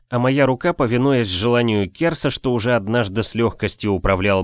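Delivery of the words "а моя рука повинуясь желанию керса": plain reading voice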